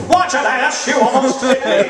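newscaster voice while driving. Acted. Newscaster driving home from the station, mock news cadence. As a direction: scold a driver in a hint of news-speak. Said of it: "they drive home from the station like that".

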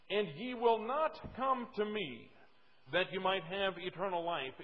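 scripture reading. Acted. Preacher repeats the key text for his listeners, slow scripture reading. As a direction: read the verse slowly and firmly.

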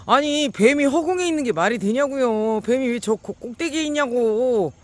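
high, loud disbelieving cry; how can a snake be up there; incredulous outcry. Real, not acted.

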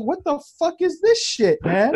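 very high-pitched mock panic; retold fright. Man retelling thinking he was dreaming, mock-panicked. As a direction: pitch it way up, acting out bewildered alarm. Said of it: "I was scared".

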